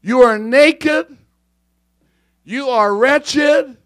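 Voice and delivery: slow, loud, high-pitched condemnation; reading the riot act. Acted. Preacher voicing God to Laodicea, slow riot-act rebuke. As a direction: pronounce each word slowly and forcefully. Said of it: "he's telling her the riot act".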